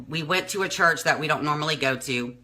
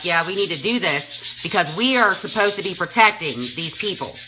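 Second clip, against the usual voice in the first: lightly voiced pastor, pitched higher; quoted pastor; 4 semitones higher than usual. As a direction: retell the pastor's insistent appeal. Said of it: "and he's like".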